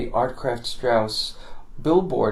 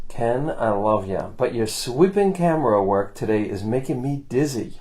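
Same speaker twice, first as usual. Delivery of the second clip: put-on New York accent; 3 semitones lower than usual. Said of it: "in his best New York accent".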